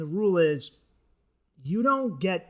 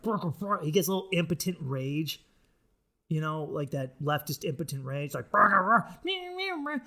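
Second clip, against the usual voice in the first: imitating impotent rage. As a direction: sputter like a powerless angry man. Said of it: "he gets angry".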